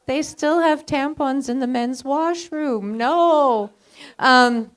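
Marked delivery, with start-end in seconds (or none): 0.1-3.7 slow, disbelieving mock outrage; incredulous quote. Mocking the men's washroom policy, slow and incredulous. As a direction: drawl it out in disbelief. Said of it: "And I'm like".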